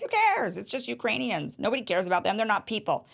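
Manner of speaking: high, sneering mock callousness; mocking the politician. Host mimicking the politician, high mock callousness. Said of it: "That's how he sounds".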